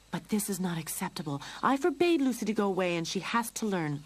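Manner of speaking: hissing anger. Acted. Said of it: "Lorene was hissing".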